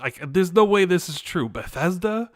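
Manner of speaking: incredulous, pitch climbing toward the end; can't-believe-it retelling; retold disbelief. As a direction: replay your stunned disbelief. Retold reaction to surprise news.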